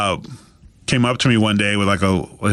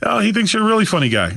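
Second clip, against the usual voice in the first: imitating Triple H's excited news; 10 semitones higher, faster than usual. Retold quote of Triple H.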